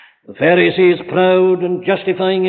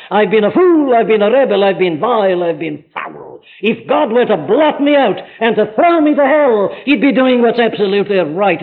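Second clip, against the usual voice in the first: louder, rising confession of guilt; penitent confession; 3 semitones higher, 3 dB louder than usual. Retold or imitated. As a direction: confess with mounting fervour, lightly acted. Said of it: "He says".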